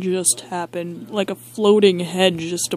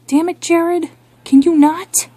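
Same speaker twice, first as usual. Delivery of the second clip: high-pitched scolding voice; exasperated guard; 9 semitones higher, 3 dB louder than usual. Acted. One security guard scolding the other, high exasperated voice. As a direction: snap at your buddy in a high voice.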